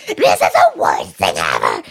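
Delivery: exaggerated doom-laden grumble; mock kid complaint. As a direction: groan it like a sulky kid. Mimicking the kids' complaint.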